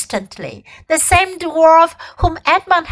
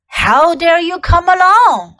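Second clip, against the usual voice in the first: loud furious queen; terrible voice; 5 semitones higher, 5 dB louder than usual. A narrator's reading. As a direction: rage at him as a queen. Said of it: "in a terrible voice".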